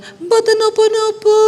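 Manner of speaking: high, slow sugary krama reply; mock-refined Javanese. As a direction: answer sweetly in polite Javanese. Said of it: "her refined Javanese reply". (jawaban halus pura-pura sopan)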